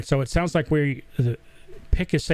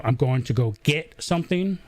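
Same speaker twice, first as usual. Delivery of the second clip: Southern "git" for get; Southern accent. Shown as a demonstration. Host showing his old Southern accent, saying git. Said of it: "just normal".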